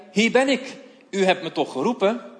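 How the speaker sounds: put-on a child answering his master's call, keen; young boy Samuel. Jonge Samuel rent naar Eli. (gretige jongensstem, hoger)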